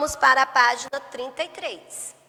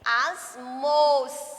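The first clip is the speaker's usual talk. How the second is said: very slow, word by word, with long pauses; teacher dictating a model sentence to children; slow dictation; much slower than usual. Shown as a demonstration. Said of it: "Vou fazer só uma pra vocês observar".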